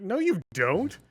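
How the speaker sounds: ordinary delivery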